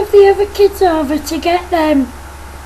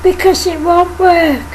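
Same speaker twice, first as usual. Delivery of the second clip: stern teacher. Acted. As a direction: scold the pupil firmly but lightly voiced. Teacher warns the kids.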